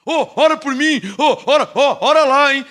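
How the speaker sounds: quick, pestering plea; mock begging. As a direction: imitate a nagging prayer request. Mimicking believers asking for prayer.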